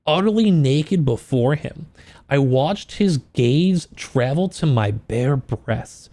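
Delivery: slow, hushed romance-novel read; story narration. Acted. Reading smut aloud on stream.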